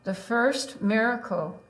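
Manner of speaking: slow, deliberate poetry reading; poem reading. Acted. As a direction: read each line as an image. Reads her tanka aloud.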